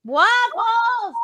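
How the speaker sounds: high, loud call to the dog. Real, not acted. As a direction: call the dog from across the house. Calling out to the dog.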